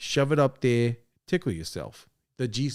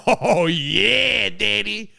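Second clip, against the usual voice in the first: higher, louder, breathy come-on; mock seductive moan; 8 semitones higher, 6 dB louder, much slower than usual. Answering the question as Stuttering John, high hammed-up moan. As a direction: vamp it up teasingly.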